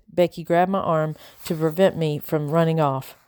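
ordinary delivery, nothing marked

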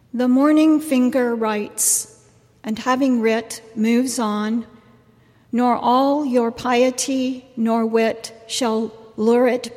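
poem recitation. Shown as a demonstration. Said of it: "another line in the Rubaiyat to recite".

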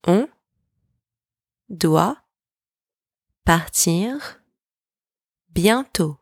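each word set apart by a long pause; isolated words, last one falling. Shown as a demonstration. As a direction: dictate it singly for learners to echo. Word-by-word breakdown for repetition.

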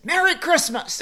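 high, loud and laughing; grandma to the paper boy, sudden cheery greeting. Retold or imitated. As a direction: sing it out brightly to cover up.

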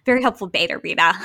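giggling emphasis; laughing. Real, not acted. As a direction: repeat it while cracking up. Laughing repeat of phrase.

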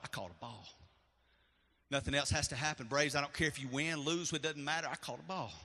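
hushed inner monologue of joy; quiet inner thought. Retold or imitated. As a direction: murmur it like a private thought. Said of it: "I'm, like, going".

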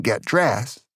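a touch of irritation, still restrained; firm but not yet yelling; mildly annoyed. Retold or imitated. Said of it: "She got just a little angry".

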